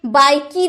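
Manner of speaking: बाइक ही said 'bai-kee', vowel added at the end; बाइक ही run together as bai-kee; wrong sounded final E. Shown as a demonstration. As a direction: mispronounce bike with its E sounded. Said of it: "नहीं बोल सकते".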